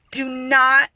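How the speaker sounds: emphatic, mild imitation of screaming; loud-edged retold command. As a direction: urge forcefully, spacing the first words. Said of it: "I was screaming it".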